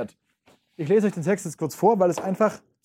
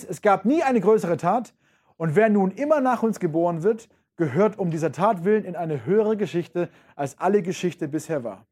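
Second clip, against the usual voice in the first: raised, proud declaiming, then settling; dramatic reading. Acted. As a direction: proclaim it, then let it fall. Teacher reads Nietzsche aloud. (feierlich vorgetragen)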